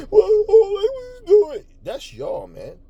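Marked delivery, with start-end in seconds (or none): 0.1-1.6 mock crying. Caught suspects pleading with cops.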